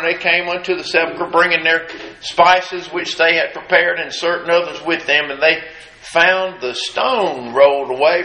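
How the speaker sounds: steady, measured Bible reading; scripture reading. Acted. Preacher reading Luke to the congregation, measured. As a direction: read the passage evenly.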